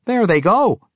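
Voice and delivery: a hint of the dwarf woman. Amber points across river.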